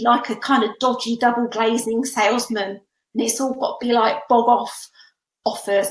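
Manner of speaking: put-on a light touch of a London salesman accent; dodgy London accent. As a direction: slip lightly into a cheeky London market-trader accent. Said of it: "I'm doing that dodgy London accent".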